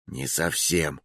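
low, soft murmur; whispered reply. A narrator's reading. Whispering back that the plan is off, hushed. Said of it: "шепнул я в ответ".

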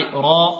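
"را" with a thick, dark vowel; heavy ra. Shown as a demonstration. Teacher leads students in repeating, heavy "را". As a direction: say "را" as a full emphatic syllable. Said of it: "نقول، انطقوا معي".

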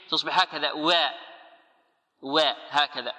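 وا pronounced with a ya-like glide; waw tinged with ya. Shown as a demonstration. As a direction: lean the وا toward ي. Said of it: "واو مشمة بالياء". (واو مشمة بالياء خطأ)

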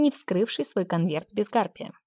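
ordinary delivery, nothing marked

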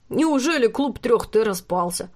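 slow, playful father's teasing; joking dad. A narrator's reading. Father teasing the three girls, slow and playful. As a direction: tease the girls lightly. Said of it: "шутливо сказал он".

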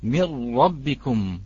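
"من ربكم" said slowly, the nun merged fully into a doubled r; mirr-rabbikum, a slow heavy doubled r; full assimilation demo. Shown as a demonstration. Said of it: "نلاحظ كيف الإدغام".

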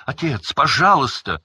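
high, loud begging; desperate plea. A narrator's reading. Son begging his father to stop, loud and high. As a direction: throw the plea at him.

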